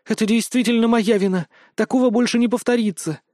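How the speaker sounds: put-on high, tearful girl's voice; girl near tears owning up to her punishment. A narrator's reading. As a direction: hold back the tears as you confess. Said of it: "чуть не плача ответила Елена".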